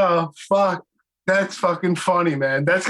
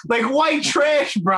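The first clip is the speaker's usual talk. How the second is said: comic disbelief; 3 semitones higher than usual. Real, not acted. Friend recalling kids running around in underwear, comic disbelief. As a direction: raise the pitch in baffled, joking protest.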